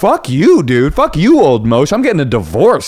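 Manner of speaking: high, loud furious outburst; mock wife yelling at husband; mock angry wife. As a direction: mimic the fed-up pregnant wife. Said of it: "she's like".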